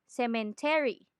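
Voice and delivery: "cemetery" with Filipino stress and full vowels; Filipino mispronunciation. Shown as a demonstration. Teacher admits it sounds funny, Filipino-style "cemetery". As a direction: say "cemetery" in deliberate Tagalog English. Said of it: "we sometimes say".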